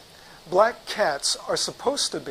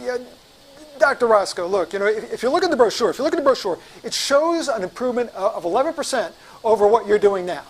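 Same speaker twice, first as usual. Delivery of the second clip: nervous; 3 semitones higher than usual. Retold or imitated. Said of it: "the beads of sweat on my forehead".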